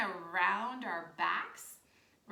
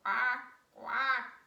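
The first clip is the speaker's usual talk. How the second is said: loud, punchy quacks; duck quack; 7 dB louder, much slower than usual. Shown as a demonstration. Teacher squeezes wings back in duck pose, loud duck quack. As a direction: belt out each quack separately. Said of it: "and go quack".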